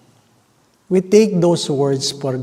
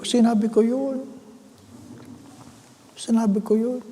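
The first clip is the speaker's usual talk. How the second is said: high, pleading protest; indignant high-pitched denial; defensive insistence; 8 semitones higher, 4 dB quieter than usual. Retold or imitated.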